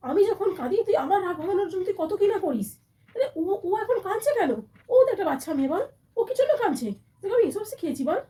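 scolding son. Acted. Mother scolding son for bride's tears.

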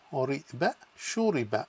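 "ri, ba" said apart, then "shuriba" blended; syllable by syllable. Shown as a demonstration. Teacher sounding out a word for students. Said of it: "Next one is shu".

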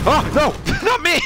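high, loud laughing cry; laughing protest. Real, not acted. Gamer dying, high laughing protest. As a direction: squeal it while laughing.

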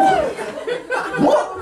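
very high-pitched, incredulous what; hammed-up shocked squeal; squealed disbelief. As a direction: shoot way up into a comic squeak. Escalated disbelief at instant callback.

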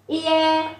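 ie said slowly as one glide, i into e; teacher shows students how ie sounds, drawn out; model pronunciation. Shown as a demonstration. Giáo viên đọc mẫu ie chậm. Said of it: "chúng ta đọc là ie".

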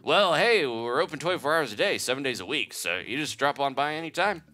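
folksy, hearty shopkeeper. Acted. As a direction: sell it like a rough country merchant. Shopkeeper dialogue voiced.

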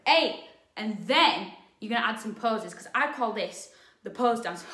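breathless after dancing; out of breath. Real, not acted. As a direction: talk while catching breath. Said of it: "I'm out of breath".

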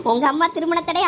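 bursts into laughter, then keeps talking through it; laughing. Real, not acted. Laughing at his friend whose girlfriend hung up. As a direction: laugh at the friend's bad luck. Friend mocks mother's marriage warnings.

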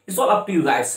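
ordinary talk

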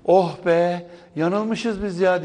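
long, drawn-out imagined sigh of relief; hammed-up "phew" of relief; mock deep relief. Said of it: "içinizden derin bir".

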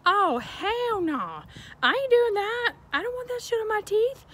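telling the hygienist off, high and loud; loud refusal. Shown as a demonstration. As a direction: blurt it out, outraged. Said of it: "you need to say".

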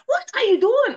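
high, loud angry shouting; daughter yelling. Retold or imitated. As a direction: yell it accusingly.

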